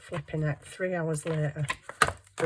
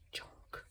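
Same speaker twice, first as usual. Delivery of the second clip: junk said slowly in a whisper; emphasis on junk; 16 dB quieter than usual. Shown as a demonstration. Crafting vlogger stresses junk in a slow whisper. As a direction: lean on the word junk, breathy and slow. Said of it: "Emphasis on the word junk".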